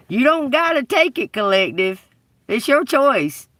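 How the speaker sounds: rally the viewers loudly; fired up. Real, not acted. Preaching to viewers, building.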